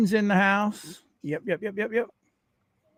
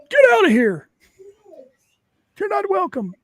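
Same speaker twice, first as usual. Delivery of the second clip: mock dismissive; 4 dB louder than usual. Mock kicking out undesirables.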